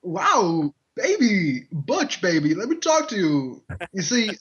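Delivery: lightly voiced Walken, odd stretched pauses; a hint of Walken's halting drawl; loosely done Walken cadence; bad Christopher Walken impression. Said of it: "I could do a really bad walk-in".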